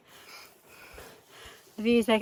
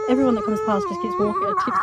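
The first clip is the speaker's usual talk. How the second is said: laughing; 8 semitones higher than usual. Real, not acted. Laughing at the angry dog.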